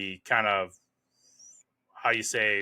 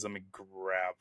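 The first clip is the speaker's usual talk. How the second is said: trailing into a near-whisper while searching; muttering to self; 2 semitones lower, 11 dB quieter than usual. Real, not acted. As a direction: mumble to yourself while hunting for something. Searching notes, talking to self.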